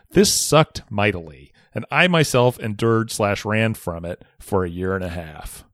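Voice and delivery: measured, articulated read-aloud; story narration. A narrator's reading. Podcaster reading a listener's bullying story, narrating. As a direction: relish the wordy storytelling.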